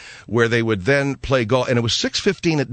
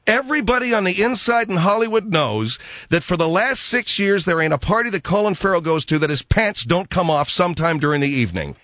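mocking repeat; 6 semitones higher than usual. Host mockingly repeats her gossip commentary.

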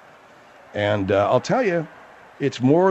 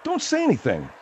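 high hushed voice; 11 semitones higher, 4 dB quieter than usual. Acted. Host hushes sidekick.

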